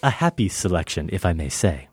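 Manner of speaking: lightly voiced, snobbish diner; acted film scene. The speaker plays the diner judging the wine, mild menace. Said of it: "I'm gonna start it off".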